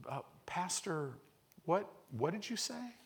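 hushed, teasing disbelief, lightly voiced; wife catching him complaining; imitating wife. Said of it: "Then your wife goes".

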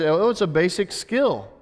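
offhand quote of common opinion; casual dismissal. Retold or imitated. Preacher voicing how people see waiting today, offhand. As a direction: toss it off as no big thing. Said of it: "We look at this today as".

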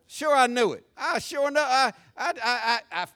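loud, high know-it-all outburst; insistent, stammering mock gossip; smug gossip. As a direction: crow that you knew it all along. Voicing gossip who claims foreknowledge.

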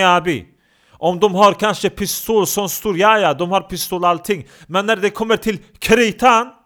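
loud, high, hotheaded street rant; aggressive Osmani tough guy. Acted. Tough guy shouting at the podcast host. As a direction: shout him down like a proud hothead.

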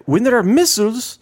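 high, loud, heated rant; angry president. Retold or imitated. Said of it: "he was getting mad at me".

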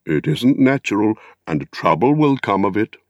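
a lightly voiced wary hobbit; gossiping hobbits. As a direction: mutter it like a disapproving neighbour. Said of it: "they said".

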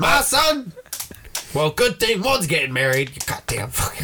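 mock angry dad. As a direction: play the shocked dad, blowing up at his son. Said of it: "He's gonna be like".

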